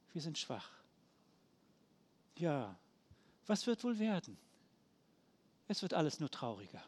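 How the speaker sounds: quiet, discouraged complaining of the downhearted; despairing grumble. Retold or imitated. Preacher voices despairing Israelites. (leise, mutlos jammernd)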